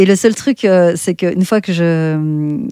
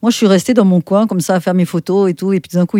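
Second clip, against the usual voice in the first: ordinary talk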